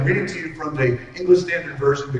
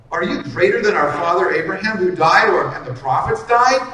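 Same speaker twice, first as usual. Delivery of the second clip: raised, higher, louder mock accusation; indignant accusers; 3 semitones higher, 6 dB louder than usual. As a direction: throw the challenge at him, heated. Jews challenging Jesus.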